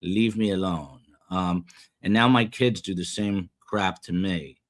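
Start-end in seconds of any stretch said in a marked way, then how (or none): 0.0-1.0 wife, exasperated, a touch louder and slower; eye-rolling wife. Retold or imitated. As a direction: brush off her husband with a sigh in the voice. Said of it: "She rolls her eyes and usually says".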